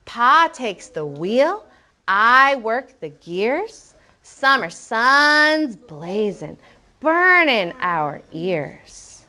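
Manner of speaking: very slow read, each line stretched out; rhythmic poem reading. Shown as a demonstration. Teacher asking children to listen, slow rhythmic verse. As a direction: read the verse slowly, with a steady beat. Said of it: "Listen to it one more time".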